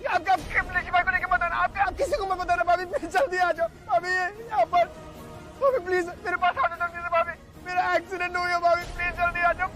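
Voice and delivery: frantic, tearful pleading; panicked pleading. Acted. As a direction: beg for help in panic. Panicked call after accident.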